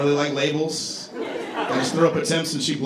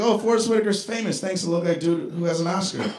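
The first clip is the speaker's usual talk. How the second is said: flattered; 3 semitones higher than usual. Retold or imitated. First flattered reaction to comparison.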